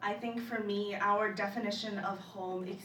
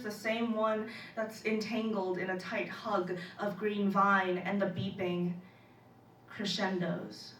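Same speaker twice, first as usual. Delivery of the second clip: spoken-word poem. Acted. Poet recalling the abandoned ship, measured recital. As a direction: recite it deliberately, pausing between phrases.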